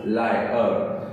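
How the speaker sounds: लायर said slowly as two syllables, ला-यर; syllable demo. Shown as a demonstration. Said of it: "इसलिए हम L I A R". (शब्दांश अलग करके लायर)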